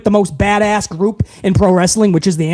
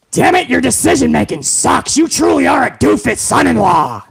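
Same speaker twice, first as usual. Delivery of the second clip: higher, shouted insult; mock boss yelling; 4 semitones higher than usual. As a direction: chew him out.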